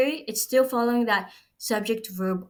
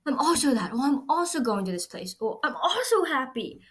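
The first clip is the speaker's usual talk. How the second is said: classmate chat; 5 semitones higher than usual. Retold or imitated. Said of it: "You're like".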